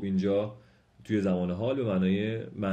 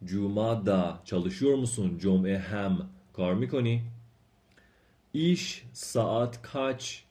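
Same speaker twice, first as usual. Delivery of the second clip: slow, careful question reading for learners; slow Turkish model reading; much slower than usual. Acted. Teacher reads Turkish questions slowly to students, careful and clear.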